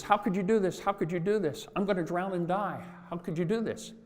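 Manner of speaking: a betrayed frog crying out in disbelief; frog's desperate plea. Acted. Frog sinking in the river, pleading with the scorpion in disbelief.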